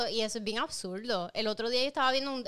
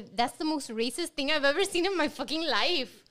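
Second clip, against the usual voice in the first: mock mortified; 3 semitones higher than usual. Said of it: "se me cayó la cara de la vergüenza".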